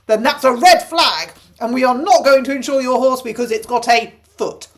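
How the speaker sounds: lightly voiced smug insurance clerk; mocking insurer voice. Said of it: "the insurance company go".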